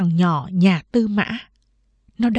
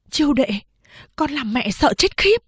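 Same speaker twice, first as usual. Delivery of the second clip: lightly voiced shaken mother; 6 semitones higher than usual. Mother shaken, relieved after fright.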